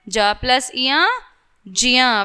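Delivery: ज्ञ said as जिया, not गै; ज्ञ pronounced जिया; correct ज्ञ demo. Shown as a demonstration. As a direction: blend ज and इया into जिया. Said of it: "ठीक है".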